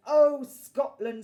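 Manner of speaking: slow, loud anguished cry; losing it. Acted. Macduff crying out to his lost country, slow and loud. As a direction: drag out the Oh in despair. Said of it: "He finally loses it and says".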